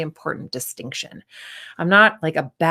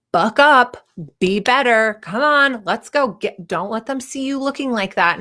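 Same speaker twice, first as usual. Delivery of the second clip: mock tough love; 4 semitones higher than usual. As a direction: bark it like a pushy coach. Mocking harsh talk to sad friend.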